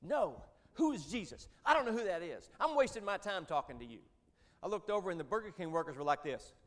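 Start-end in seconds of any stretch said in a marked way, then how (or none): 0.0-4.0 retold furious yell, higher and louder; angry scream. Angry old professor yelling at the preacher in Burger King, hammed-up scream. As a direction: bellow it like a caged lion losing control. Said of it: "screaming at me at the top of his lungs".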